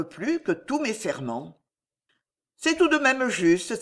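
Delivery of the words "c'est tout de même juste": a higher, struck realization; suddenly convinced, voice lifting; mild surprised cry; exclaiming. A narrator's reading. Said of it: "s'écrie-t-elle".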